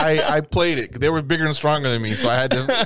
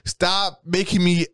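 raised pitch, urgent scolding; mock-heated wife's warning; imitated exasperated wife; 6 semitones higher than usual. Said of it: "Carol's all fucking, like, trying to".

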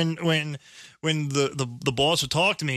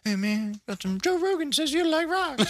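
mock street dealer; 10 semitones higher than usual. Mock drug dealer pitch.

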